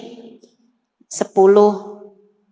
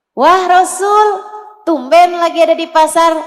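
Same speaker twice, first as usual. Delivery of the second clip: surprised bystander; 4 semitones higher, 3 dB louder than usual. Acted. Market man greeting the Prophet, higher and surprised. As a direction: hail him with surprise.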